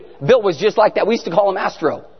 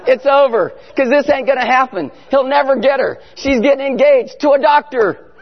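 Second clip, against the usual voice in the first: inner panic; 3 semitones higher than usual. Retold or imitated. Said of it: "inside I'm going".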